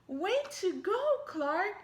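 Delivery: loud, high friendly cheer. Acted. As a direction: cheer like a gang of kids.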